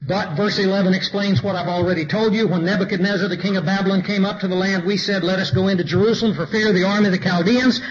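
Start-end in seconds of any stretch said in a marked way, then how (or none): 2.5-7.8 measured reading of the verses; scripture reading. Acted. Preacher reading Jeremiah to his congregation, measured scripture voice. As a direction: read it out to the church, steady and deliberate.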